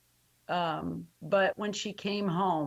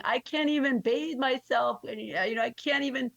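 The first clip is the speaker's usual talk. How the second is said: tearful daughter; 6 semitones higher than usual. Retold or imitated. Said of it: "she's just bawling, crying".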